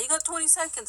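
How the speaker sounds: mock DJ countdown patter; fast-talking auctioneer. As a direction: imitate an auctioneer calling the time. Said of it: "like an auctioneer because he talks hella fast".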